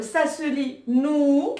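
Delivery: nou drawn out slowly; slow model of nou; long ou. Shown as a demonstration. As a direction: stretch the ou of nou. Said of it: "avec le waw".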